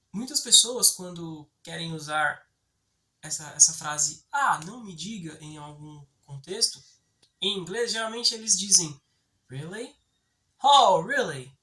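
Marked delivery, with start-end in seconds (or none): 10.7-11.4 very loud, sarcastic, ironic tone of disbelief. Explaining an english phrase, showing how people usually say it, ironic tone. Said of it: "Com um tom irônico".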